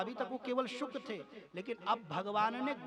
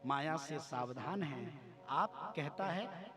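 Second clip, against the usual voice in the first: prayerful plea; 5 semitones lower than usual. Retold or imitated. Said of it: "भगवान वेद व्यास ने प्रार्थना की".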